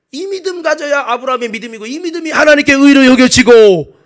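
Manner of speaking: preaching that builds to a loud cry; full-force preaching. Real, not acted. Preacher urges Abraham's faith on congregation, full-force preaching. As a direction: press the point, swelling to a shout.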